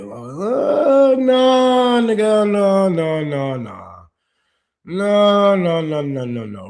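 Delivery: emphatic refusal. Real, not acted. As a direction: shut the excuse down hard, word after word. Rejecting a religious excuse.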